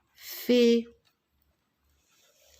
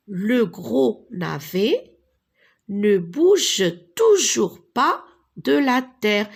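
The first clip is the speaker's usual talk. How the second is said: emphatic storytelling; 6 dB louder than usual. Acted. Teacher reads story emphatically.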